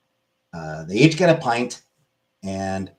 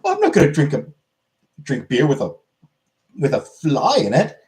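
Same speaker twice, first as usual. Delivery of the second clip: lightly voiced fussy Englishman, pitched higher; prissy Englishman; 5 semitones higher than usual. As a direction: whine about the fly like a prim pansy, half-hearted. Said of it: "the English are, uh, pansies and like".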